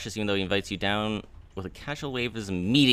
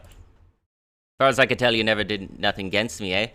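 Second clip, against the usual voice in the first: hint of a gruff captain; 4 dB louder than usual. Player voices captain to Narbo.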